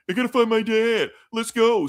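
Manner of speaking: high-pitched mock American movie hero; American accent. Host shows co-host how the cast talks, exaggerated American accent. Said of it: "everybody's talking like they're from America".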